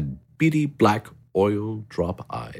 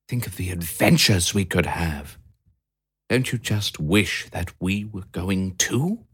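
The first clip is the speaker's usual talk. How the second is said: Harry the hamster. A narrator's reading. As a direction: moan it like a bored little hamster. Harry dreams of Venice.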